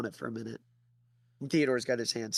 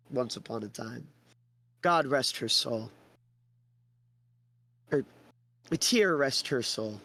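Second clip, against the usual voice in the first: smooth con man; 3 semitones higher than usual. Acted. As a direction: sweet-talk him, dragging the words.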